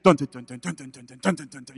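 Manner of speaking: mock dramatic music. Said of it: "like, dramatic music".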